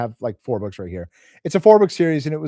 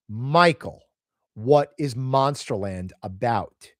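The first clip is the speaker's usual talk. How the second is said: slow, deliberate retold question; slow right down to press for the real answer; pointed question; 2 semitones lower, slower than usual.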